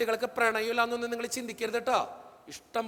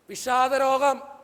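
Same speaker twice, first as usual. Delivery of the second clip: drawn out slowly and louder; slow grave emphasis; 5 dB louder, much slower than usual. Real, not acted. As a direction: lay the word down slow and heavy. Naming depression gravely.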